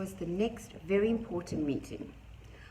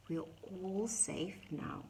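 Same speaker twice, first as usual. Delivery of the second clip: reassuring; 6 dB quieter, slower than usual. Acted. Owl comforting softly.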